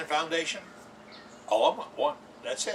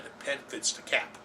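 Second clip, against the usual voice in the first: whispered; 6 dB quieter than usual. Shown as a demonstration. Host whispering the rule to viewers. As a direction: whisper The pen fits the cap, soft and unvoiced.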